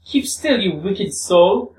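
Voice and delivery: high, drawn-out mock shout; hammed-up fury, pitched high and slowing; furious. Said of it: "shouted furiously at him".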